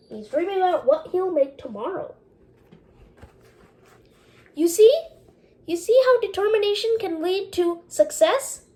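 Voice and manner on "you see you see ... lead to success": emphatic teacher. Real, not acted. Teacher stresses the lesson.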